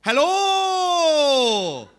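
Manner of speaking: high, loud singsong Welsh-Indian-Geordie accent; exaggerated drawn-out Welsh-Indian accent; Geordie-Welsh-Indian accent demo. Shown as a demonstration. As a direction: stretch the key words in an interchangeable Welsh, Indian or Geordie lilt. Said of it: "are perfectly interchangeable".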